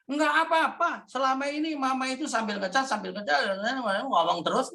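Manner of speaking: mock indignant wife, dragging out the words; retold quarrel retort. Wife answers husband back in their quarrel, mock indignant.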